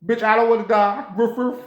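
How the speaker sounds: high, sassy talking-dog voice; comic high dog voice ending in woofs; protesting dog. Acted. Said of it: "The dog go".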